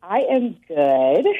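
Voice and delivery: shy, nervous laugh; a little nervous and giggly. Real, not acted. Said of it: "You sound a little nervous".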